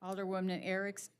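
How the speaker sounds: losing her voice, hoarse; hoarse roll call, voice giving out. Real, not acted. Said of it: "losing my voice".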